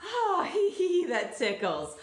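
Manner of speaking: high, drawn-out ticklish tee-hee; tickled giggle. Acted. Tickled character in the picture book.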